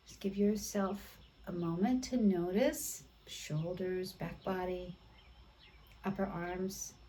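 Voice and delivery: hushed mindful cueing in short phrases; guided meditation. Real, not acted. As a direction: guide them gently, leaving long silences. Guides students through quiet noticing.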